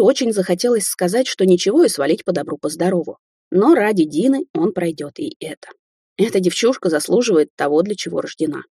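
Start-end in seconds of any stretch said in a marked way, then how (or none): none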